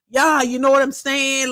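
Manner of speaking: lightly mimicked man in a panic; attempted male voice. Man asking viewers for rent money, lightly put-on male voice. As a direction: play a man begging online, not too convincingly. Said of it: "trying my best to talk like a man".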